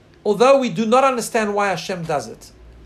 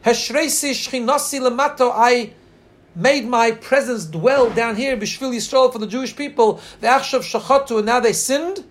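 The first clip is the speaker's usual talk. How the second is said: mournful lament; 2 semitones higher than usual. Retold or imitated. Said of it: "and then he starts to cry".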